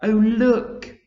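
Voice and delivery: high, loud excited call; ladybird shouting. A narrator's reading. Ladybird calling everyone, high excited shout. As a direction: point it out eagerly. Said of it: "shouted the ladybird".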